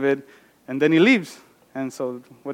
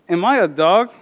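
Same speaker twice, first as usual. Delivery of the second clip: a touch of a roar, somewhat louder; mild roar; 4 semitones higher, 5 dB louder than usual. Acted. Goliath roars at David, mildly read. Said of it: "he roared at David".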